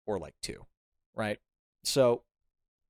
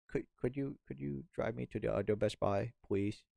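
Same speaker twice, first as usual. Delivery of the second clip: timid pleading; 7 dB quieter than usual. Retold or imitated. Timidly asking roommate for a ride.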